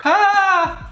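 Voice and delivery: pained yelp. Real, not acted. Mouth on fire from pepper.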